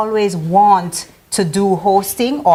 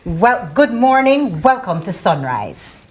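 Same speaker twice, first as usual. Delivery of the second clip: radio voice; slower than usual. Shown as a demonstration. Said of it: "you have to say".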